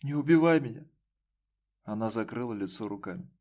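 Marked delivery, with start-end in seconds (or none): 0.0-0.9 tearful high plea, pitch up; sobbing don't kill me. A narrator's reading. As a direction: beg through tears. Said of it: "она разрыдалась".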